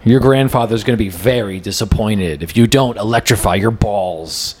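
mock ad announcer. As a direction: sell it like a cheesy TV spot. Mock commercial pitch for Chess Penis.

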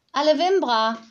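put-on high, loud childish call of „Wimbra“; little girl calling. Little girl calls goodbye to the nanny in her own language. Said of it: "rief die Kleine".

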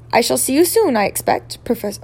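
lightly voiced professor, wrong character; mistaken McGonagall voice. Character bids the professor farewell, in the wrong voice. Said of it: "oh, that was not Professor McGonagall".

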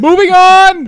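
slow, high, loud announcer shout. Acted. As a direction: belt it out to change topic. Echoes the shout.

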